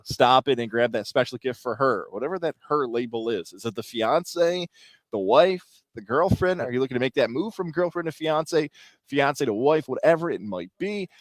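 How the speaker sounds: smooth, energetic sponsor read. Acted. Host pitches jewelers' holiday deals, ad read. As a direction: sell it like a radio host.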